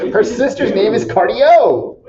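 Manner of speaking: cracking up at your own punchline; laughing. Real, not acted. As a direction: laugh while repeating your own joke, pitch rising. Teacher laughing at own joke.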